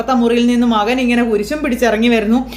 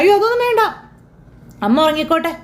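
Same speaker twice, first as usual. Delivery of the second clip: alarmed hush; 5 semitones higher than usual. Acted. Sister hushing Varsha's prank plan.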